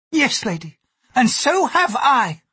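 high, slow, pointed retort; rough-voiced. A narrator's reading. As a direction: answer back roughly, stretching the words. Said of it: "her voice rough".

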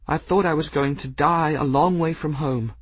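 high, tearful confession; crying. Acted. Bridget crying into the cat's fur, tearful. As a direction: sob it out with relief. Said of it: "she did begin to cry".

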